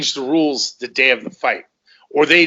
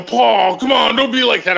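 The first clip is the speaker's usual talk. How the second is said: mock pleading; 8 semitones higher than usual. Imitating promoter pleading with him.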